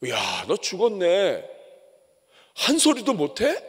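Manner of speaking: whisper-close sweet talk that turns to a mild taunt; tempting serpent. Retold or imitated. Preacher voices the serpent flattering, then taunting mildly. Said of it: "이 뱀이 하와에게 다가와서".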